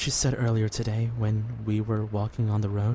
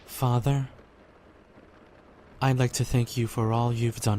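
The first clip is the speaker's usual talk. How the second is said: prayer. Acted. Boy prays for friends before sleeping, earnest prayer. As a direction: pray sincerely, unhurried.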